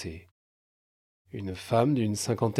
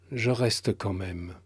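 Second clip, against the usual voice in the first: trop calme; slower than usual. Acted. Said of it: "d'une voix calme, posée, trop calme".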